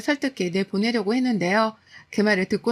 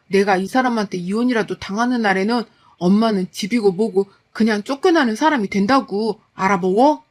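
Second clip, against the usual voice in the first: husband shouting. Retold or imitated. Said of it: "남편이 소리쳤죠".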